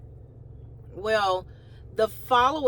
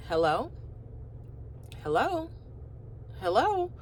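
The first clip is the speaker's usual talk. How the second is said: calling hello; 3 semitones higher, 4 dB quieter than usual. Retold or imitated. Calling into a silent phone.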